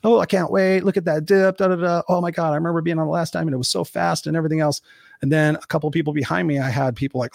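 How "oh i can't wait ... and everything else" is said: higher-pitched imitation of excited riders; super excited. Speaker imitating people in line at Magic Mountain, super excited. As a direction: gush like a thrilled coaster fan. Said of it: "some of the people were super excited".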